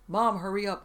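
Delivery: loud call through a door. A narrator's reading. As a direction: shout it to someone behind a door. Calling through bathroom door.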